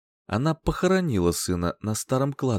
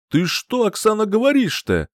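high, loud howl of protest; man wailing at his furious partner; 11 semitones higher, 5 dB louder than usual. A narrator's reading. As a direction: howl back in shock. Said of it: "возопил Сорокин".

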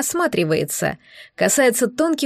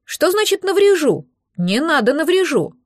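alarmed protest; 6 semitones higher than usual. A narrator's reading. Frightened hatchling begging not to be hurt, high and panicky. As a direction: squeal it, scared of being harmed.

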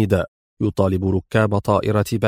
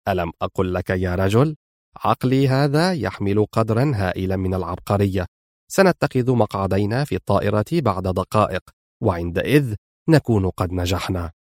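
low, soft, smug menace; lightly fierce boast; 4 semitones lower, 3 dB quieter than usual. Acted. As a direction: gloat quietly to his partner. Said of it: "في شراسة". (تباهٍ شرس خافت)

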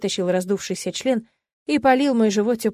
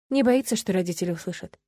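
ordinary delivery

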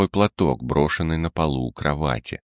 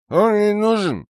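put-on much higher giggly drunk voice; giggling; 3 dB louder than usual. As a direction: giggle the words out. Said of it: "хихикнул портной".

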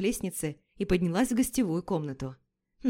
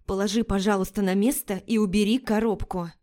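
forced calm. Acted. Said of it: "Как можно спокойнее постаралась сказать я".

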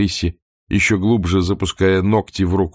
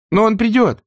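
desperate; 4 dB louder than usual. Acted. Scarlett's desperate insistence.

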